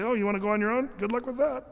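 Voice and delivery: playful acted brush-off; mock dismissive. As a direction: wave them off with a lilt. The Lord's dismissive reply, acted.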